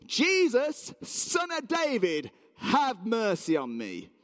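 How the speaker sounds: high, drawn-out call, dropping at the end. Acted. Blind beggar calls to Jesus passing by, pleading shout. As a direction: cry out for mercy, stretching the words. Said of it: "started to shout at the top of his voice".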